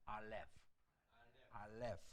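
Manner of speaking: 알렙 closed on an F, lips apart; F ending. Shown as a demonstration. Teacher repeats the letter for learners, 알렙 with F ending. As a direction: finish 알렙 with F, lips never meeting. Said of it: "F 발음이기 때문에 입술이 닿지 않습니다".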